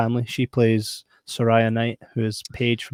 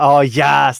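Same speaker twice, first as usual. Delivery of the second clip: mock cheer; 2 semitones higher, 7 dB louder than usual. Acting out viewer reaction.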